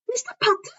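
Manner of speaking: a falsely sweet teacher voice; sugary Umbridge. Acted. Umbridge calling on Harry in class, saccharine.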